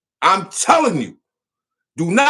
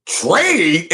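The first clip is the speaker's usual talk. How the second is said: a rapper's voice; 6 semitones lower than usual. Retold or imitated. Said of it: "In my rapper voice".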